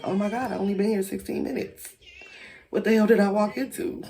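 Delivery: fast, high, loud panicked inner voice; retold panic. Standing frozen as Roger gets beaten, fast panicked disbelief. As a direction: rattle it off like you can't believe it.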